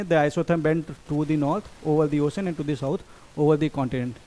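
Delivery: slow, careful reading of an exam statement; slow reading aloud. Shown as a demonstration. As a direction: read each word out slowly for the class. Reads textbook statement aloud. (धीमे-धीमे पढ़कर सुनाना)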